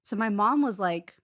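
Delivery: normal talking voice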